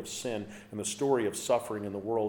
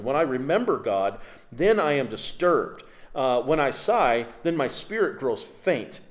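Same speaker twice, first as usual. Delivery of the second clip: raised, emphatic psalm reading opening loud; impassioned scripture reading; 3 semitones higher, 5 dB louder than usual. Acted. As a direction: declaim the psalmist's lament, easing toward the end. Reads the psalm aloud forcefully.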